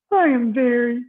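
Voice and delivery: Mister Snore trying to stay awake; sleepy guest. Acted. Mister Snore tells the bellhop he is tired, weary.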